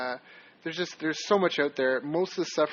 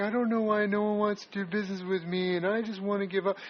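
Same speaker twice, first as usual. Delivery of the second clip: derisive, mocking, higher-pitched voice; 5 semitones higher than usual. Speaker quotes two people who complained to them, in a mocking voice. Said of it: "I'm I'm making a mocking voice right now".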